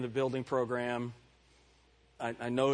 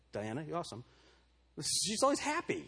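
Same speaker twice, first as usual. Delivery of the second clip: 1 mock congregant voice; 2 semitones higher than usual. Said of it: "How many of you would say".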